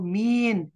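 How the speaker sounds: "मीन" with a long drawn-out ee; slang pronunciation. Shown as a demonstration. Teacher showing students Arab slang, slang pronunciation. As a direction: say "मीन" slowly, stretching the vowel. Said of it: "अमिया बोलते हैं".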